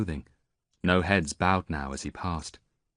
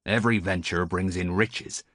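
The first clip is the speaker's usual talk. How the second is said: put-on old sailor.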